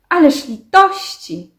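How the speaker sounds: loud, high cry for mercy; desperate plea. Acted. Trurl begging the mayor for mercy, desperate cry. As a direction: plead high and drawn out. Trurl begs not to be given up.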